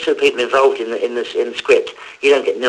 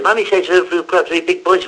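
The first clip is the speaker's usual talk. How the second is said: lightly voiced small child, slightly raised pitch; a touch of little-kid recital; four-year-old's advert line; 4 semitones higher than usual. Voice actor doing his bit beside Bob, lightly voiced four-year-old. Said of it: "I'm doing my bit".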